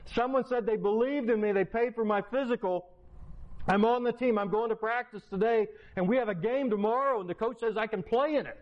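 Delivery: put-on high, fast and eager, the kid's big news; excited kid. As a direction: burst out with the good news, fast. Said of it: "all excited".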